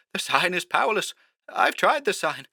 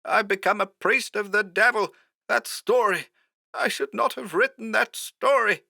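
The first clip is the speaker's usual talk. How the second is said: high, softer, despairing phone voice; hoarser and afraid; 13 semitones higher, 4 dB quieter than usual. A narrator's reading. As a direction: confess in hushed dread. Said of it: "more hoarsely this time".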